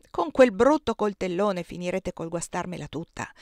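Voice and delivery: put-on proud old cook bragging about her cakes, lightly done; lightly voiced Aunt Clo. Zia Clo takes the knife. (la zia Clo, voce di cuoca orgogliosa appena accennata)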